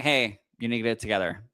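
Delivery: lightly voiced firm dad; a hint of a calm stern father; mild dad voice setting a child straight. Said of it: "that's, like, my dad voice".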